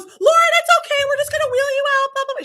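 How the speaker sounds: mock cheerful calm to keep her from panicking; soothing nurse voice. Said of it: "She goes".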